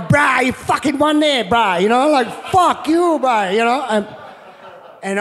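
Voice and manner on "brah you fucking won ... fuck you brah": Hawaiian pidgin. Retold or imitated. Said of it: "every Hawaiian going".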